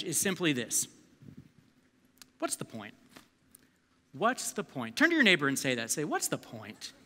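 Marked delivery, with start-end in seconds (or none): 2.4-5.0 low and soft; hushed, low-key title line; understated. Real, not acted. Title first said, later redone with passion. 6.0-6.9 quiet, low first take; hushed and understated; low-key. Shown as a demonstration. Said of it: "Say it with a little more passion".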